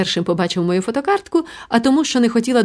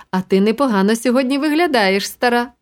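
голос Ганнусі; 3 semitones higher than usual. Acted. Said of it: "як каже моя напівподруга Ганнуся".

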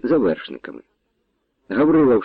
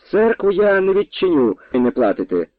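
mock yell, pitch jumping higher; shouted refusal; 7 semitones higher than usual. A narrator's reading. Arrendator yelling refusal at the Cossacks, mock shout. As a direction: bark it at the Cossacks. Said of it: "крикнув той".

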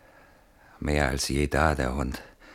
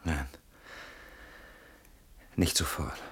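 tense whisper; 9 dB quieter than usual. Acted. Whispering, intruder behind the door.

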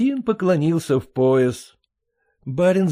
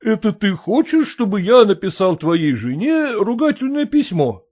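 higher, questioning gentleman voice; a surprised landowner asking back; puzzled master; 7 semitones higher, 3 dB louder than usual. Acted. Master surprised at the peasant's request, higher voice.

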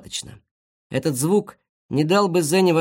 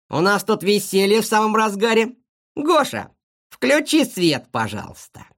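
higher, mocking, sing-song host voice; sly villain; 6 semitones higher than usual. Kosoy sarcastically welcomes the guinea pig into his trap. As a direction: welcome her like a smug trap-setter.

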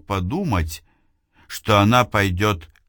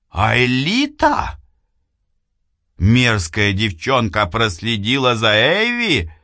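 alarmed; 3 semitones higher than usual. Acted. Эйвилна замечает шпионку.

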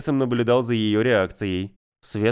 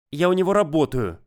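put-on sulky teen mumble; 5 semitones higher than usual. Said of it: "буркнула Светка".

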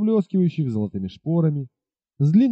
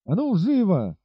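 higher, barked order; captain commanding his men, urgent; 6 semitones higher than usual. Acted. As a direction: order the soldiers sharply. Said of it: "скомандовал он солдатам".

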